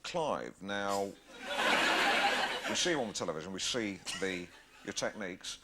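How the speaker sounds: a hint of a pompous chat-show host; Alan Partridge. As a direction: needle the guest with mock-earnest concern. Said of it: "He might say something like".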